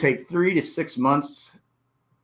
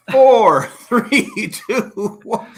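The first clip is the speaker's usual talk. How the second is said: crowd countdown; 9 semitones higher, 7 dB louder, much slower than usual. Retold or imitated. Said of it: "count down on the clock".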